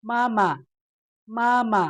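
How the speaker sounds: "มาม่า" with a high first syllable, short light second; neutral-tone demonstration. Shown as a demonstration. Teacher shows learners the neutral tone, "มาม่า" ending short and light. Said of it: "读得又短又轻的声调".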